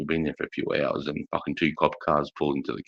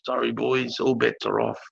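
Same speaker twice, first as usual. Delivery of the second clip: higher-pitched imitation of bad news; retold apologetic announcement; 6 semitones higher than usual. Retold sergeant breaking bad news.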